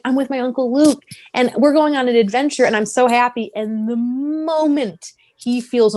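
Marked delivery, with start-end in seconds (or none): 0.0-3.5 lightly acted happy kid, higher pitch; happy boy. Fan voices Ben on an adventure with his uncle, happy. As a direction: gush a little like an excited nephew. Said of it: "Ben is so happy".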